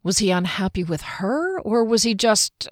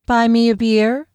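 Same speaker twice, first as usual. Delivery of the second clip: sing-song flirt; 4 semitones higher, 6 dB louder than usual. Acted. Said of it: "in her low timbre sing-song voice".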